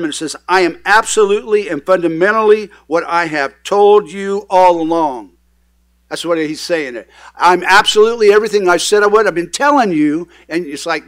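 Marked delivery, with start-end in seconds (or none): 0.5-5.3 firm, emphatic declaration; firmly insisting, weight on key words; direct and firm. Retold or imitated. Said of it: "it's direct and firm". 7.4-10.3 brisk, louder insistence; firm, emphatic restatement. Retold or imitated. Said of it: "it's a very firm statement".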